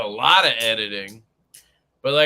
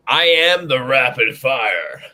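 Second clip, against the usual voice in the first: mock boast; 8 dB louder, slower than usual. Mock boast of rival's line.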